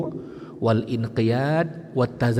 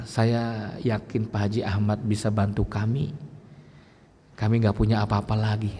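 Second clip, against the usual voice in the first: softer, lower humble begging; humble plea; 4 semitones lower, 3 dB quieter than usual. Retold or imitated. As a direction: ask the rich man meekly. Humbly asking rich neighbour. (memohon dengan rendah hati kepada Pak Haji Ahmad)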